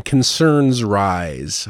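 "Concerns rise." drawn out very slowly, mock ominous; mocking headline read. Vlogger mocking a weaselly news headline, slow mock-dramatic read. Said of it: "this is a weaselly headline".

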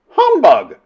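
high, loud interjection; lady heckler. A narrator's reading. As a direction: heckle it in one burst. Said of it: "from a lady".

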